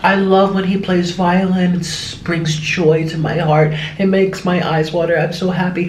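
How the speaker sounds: put-on old lady praising the boy to his mom, slow and doting; sweet old lady. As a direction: gush slowly like a sweet elderly lady. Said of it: "cute senior citizens would come up".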